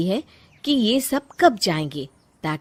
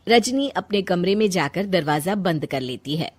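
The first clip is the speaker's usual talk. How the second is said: ordinary delivery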